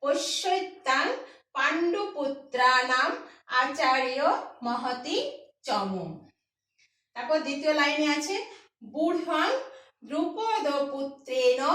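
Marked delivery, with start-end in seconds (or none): 0.0-6.0 slow careful reading. Shown as a demonstration. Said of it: "উপরের লাইনটা কি হলো?".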